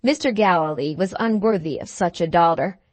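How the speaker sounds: ordinary delivery, nothing marked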